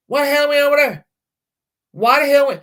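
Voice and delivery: high, exasperated why-the-hell; indignant outburst. Real, not acted. Hostess asks friends why she must host, high and exasperated.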